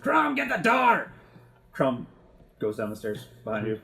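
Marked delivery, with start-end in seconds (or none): 0.0-1.1 high, loud, drawn-out call; exasperated yell. Acted. Felix calling Crumb to answer the door, exasperated yell. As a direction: holler it slowly to someone across the house. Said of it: "rolls his eyes and says".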